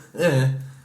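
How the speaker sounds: imitated uneasy little whimpers; uneasy noises. Nervous onlooker in the corner reacting to a gross description, uneasy whimpering. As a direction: whimper in mock discomfort. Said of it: "not having a good old time".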